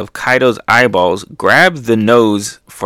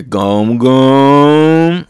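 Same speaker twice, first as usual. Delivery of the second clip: stretched, rising, louder "gum gum"; attack-name call; 3 semitones higher, 5 dB louder than usual. Acted. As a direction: build up a cartoon attack cry. Calls out attack move name.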